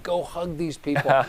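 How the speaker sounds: coaxing a dog in a near-murmur; urging a dog under my breath. Retold or imitated. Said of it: "And I'm saying to myself, to this dog".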